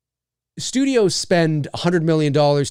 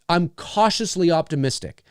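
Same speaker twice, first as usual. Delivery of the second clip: emphasis on "cautiously"; "cautiously" picked out for emphasis; stress on cautiously. Real, not acted. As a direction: lean on the word cautiously, hedging the optimism. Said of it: "emphasis on the cautious".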